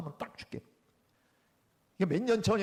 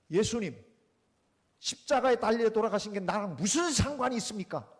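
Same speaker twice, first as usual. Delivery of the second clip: mock shouted challenge; 4 dB louder than usual. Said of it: "냅다 세 번만 소리 지르고 나와라".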